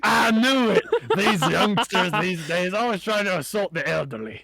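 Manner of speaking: put-on cranky old man. GM voices old goblin.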